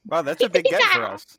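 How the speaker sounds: mock impressed.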